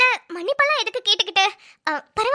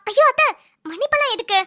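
sugary act. Pretend. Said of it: "நம்மளோட performance கொஞ்சம் இருக்கணுமே".

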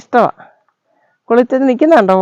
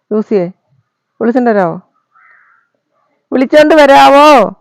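louder, drawn-out call to the dog to fetch Juicy; louder slow call; 4 dB louder than usual. Acted. Repeats request, calling out.

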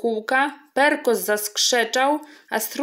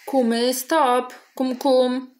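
a light croak on the kum sounds; croaking frog; 4 semitones higher, 4 dB louder, slower than usual. Acted. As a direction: give the frog a quick croak. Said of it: "zarechotała żaba".

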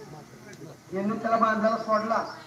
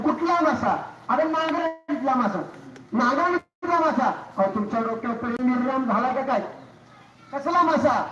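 raised, incredulous questions, playing dumb; mock innocent disbelief; 3 semitones higher than usual. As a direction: feign total surprise at his fish story. Wife feigns ignorance, mocking husband.

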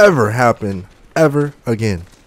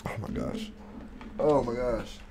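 whisper; 16 dB quieter than usual. Real, not acted. Sick after hot wings.

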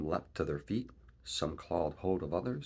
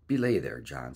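sharp warning; 3 semitones lower, 7 dB louder than usual. A narrator's reading. Shipmate stops Silver's rash talk.

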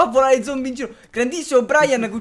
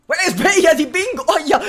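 higher, louder teasing wake-up call; playful rousing; 7 semitones higher, 7 dB louder than usual. Real, not acted. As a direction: poke the sleeping zombie with your voice. Poking a sleeping zombie. (sveglia scherzosa e più alta)

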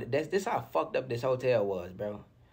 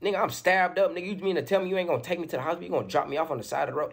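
higher-pitched, fast indignation; incredulous protest; 6 semitones higher, faster than usual. Retold or imitated. Stabbed man protesting to police in the ambulance, incredulous. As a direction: retell a rushed, disbelieving objection.

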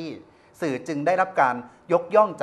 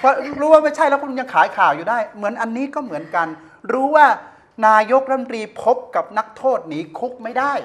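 louder, higher indignant ranting; heated rant; 7 semitones higher, 8 dB louder than usual. Real, not acted. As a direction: hammer home his outrage at the press. Host rants about news sales.

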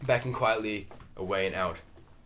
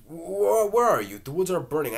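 panicked; 9 semitones higher, 8 dB louder than usual. Acted. Willie's panicked outburst.

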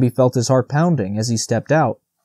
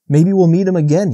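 higher, louder eager hope; enthusiastic; 6 semitones higher, 5 dB louder than usual. A narrator's reading. Bambi eager to show Faline the old stag, enthusiastic. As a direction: bubble over with eagerness. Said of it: "grew enthusiastic".

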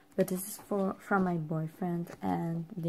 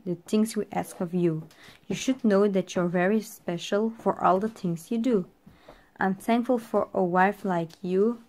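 measured, even poem recital; poem reading; 4 dB louder than usual. Acted. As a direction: read each line like a love letter. Reads boyfriend's poem aloud.

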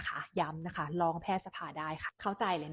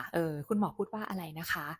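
calm, composed. Shown as a demonstration. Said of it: "ด้วยท่าทีนิ่งๆนะ".

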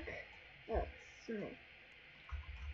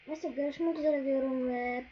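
sing-song goodbye; 9 dB louder, slower than usual. Real, not acted. Drawn-out outro goodbye.

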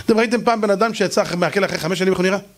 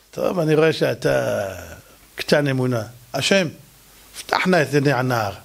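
calm prophet; 5 semitones lower than usual. Acted. Elisha prays calmly.

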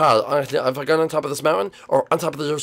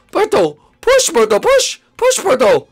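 shouting push; 6 dB louder, much slower than usual. Acted. Coaching through birth, shouting.

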